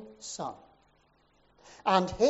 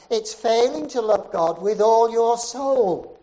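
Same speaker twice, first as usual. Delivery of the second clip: building preacher's cry; 6 dB louder than usual. Retold or imitated. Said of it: "And then he says".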